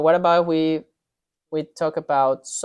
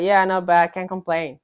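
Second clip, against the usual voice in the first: imitating Aussie; 3 semitones higher, 4 dB louder than usual. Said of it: "they say, like".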